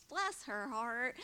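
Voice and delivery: slow, syrupy sympathy hiding a jab; sweet-voiced Southern saying. Southern woman finishing her jab, slow and syrupy. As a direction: pour on fake sweetness. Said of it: "saying mean things in a sweet voice".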